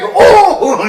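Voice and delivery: high, flustered mock yelp; hammed-up jittery deputy outburst; Barney Fife. Flustered gunman facing the grill, imitated jittery yelp. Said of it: "Barney Fife".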